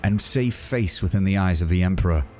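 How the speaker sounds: a lightly voiced zealot preaching repentance; Savani's rebuke. Savani accuses Korda.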